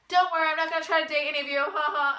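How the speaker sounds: fast, loud, high mock line with a laugh; mocking the coach. Coach to the class, a fast mock reassurance with a laugh. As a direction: rattle it off and laugh it away.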